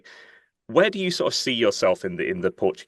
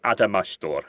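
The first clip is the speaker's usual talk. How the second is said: Portuguese accent. Real, not acted. Host checking a song title with the artist, Portuguese accent. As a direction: attempt at a Portuguese pronunciation. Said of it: "Portuguese accent is not far off".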